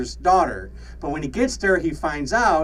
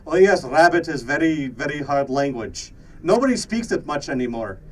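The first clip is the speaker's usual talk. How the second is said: put-on Russian accent. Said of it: "hear me speak with a Russian accent".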